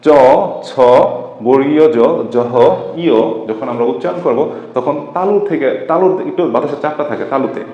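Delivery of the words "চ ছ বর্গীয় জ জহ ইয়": চ ছ জ জহ ইয় each said alone; palatal letters demo. Shown as a demonstration. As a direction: separate beats for চ, ছ, জ, জহ, ইয়. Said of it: "তো দেখেন".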